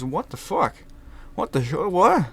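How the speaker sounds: high disbelieving outburst; shocked witness. Retold or imitated. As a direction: act stunned by the punch. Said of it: "they liked a bit of the showmanship and the flair".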